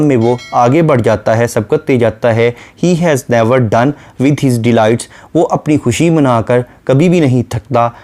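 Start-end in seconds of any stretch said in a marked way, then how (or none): 2.8-5.0 very slow, measured poetic reading; a lightly recited line of poetry; slow poem recitation. Shown as a demonstration. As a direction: draw out each word of the verse.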